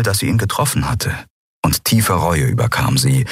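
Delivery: ordinary delivery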